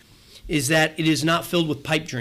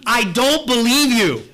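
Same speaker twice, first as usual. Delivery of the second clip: louder, slow, scornful retort; mock yell at the TV; 5 semitones higher, 5 dB louder, slower than usual. Preacher yelling back at a TV commercial, mock shout. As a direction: throw it back at the TV with disbelief. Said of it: "I almost feel like yelling back at the T V".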